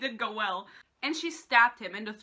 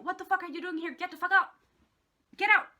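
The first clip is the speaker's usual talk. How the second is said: building higher and louder, mock angry; mock yell; 6 semitones higher, 6 dB louder, faster than usual. Jude orders her twin out, louder with each line. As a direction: shove her sister out, rising to a yell. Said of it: "Jude is like".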